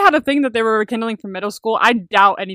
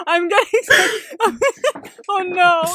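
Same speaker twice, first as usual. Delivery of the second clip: cringing; 9 semitones higher than usual. Real, not acted. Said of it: "secondhand embarrassment".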